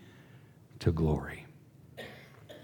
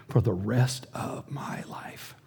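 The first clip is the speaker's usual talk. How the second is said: whisper; 6 dB quieter, slower than usual. Real, not acted. Speaking of broken heart.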